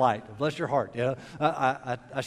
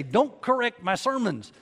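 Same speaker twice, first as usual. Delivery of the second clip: higher-pitched retold objection to his wife; mildly indignant, retelling a spat; mock protest; 5 semitones higher than usual. Acted spat with correcting wife.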